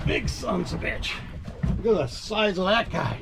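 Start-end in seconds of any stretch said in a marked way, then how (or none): 0.1-1.1 whispering. Real, not acted. Awed at a big fish.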